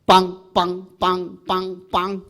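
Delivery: short punchy trumpet blasts; imitated horn blasts. Shown as a demonstration. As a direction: mimic a trumpet blast, bang bang. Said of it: "크게 분다는 말은 이렇게 부르는 거예요".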